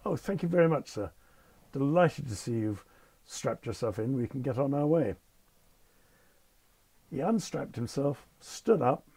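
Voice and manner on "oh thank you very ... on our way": retold politeness. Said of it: "I said very politely".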